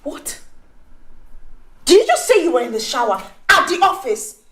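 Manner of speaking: scandalised questioning; incredulous. Acted. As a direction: question the excuse as if it cannot be believed. Incredulous reaction to shower excuse.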